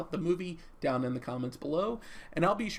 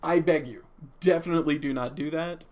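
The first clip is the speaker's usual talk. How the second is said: loud plea; 7 dB louder than usual. Real, not acted. Pleading with viewers not to check out.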